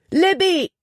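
high, loud scream of the name; desperate scream. Acted. Jordan screaming to Libby as the ice breaks. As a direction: scream her name over the roaring water. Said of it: "schrie Jordan".

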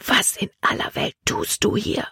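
surprised whispered question. Acted. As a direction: whisper in astonishment. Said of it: "Calebs Stimme war ein Flüstern". (erstaunt geflüstert)

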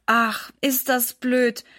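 slow and trembling with pain; mother annoyed and hurt, voice trembling; shaky voice. Acted. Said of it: "ihre Stimme klingt ganz zittrig".

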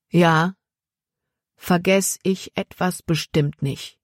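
"vergess ich etwas bestimmt nicht" slow, each word weighted; "Ja" firm, then lean deliberately on each word of "vergess ich etwas bestimmt nicht"; every word stressed. A narrator's reading. Boy answers the bandit's warning, stressing each word from "Ja" to "nicht". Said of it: "Jordan betonte jedes Wort".

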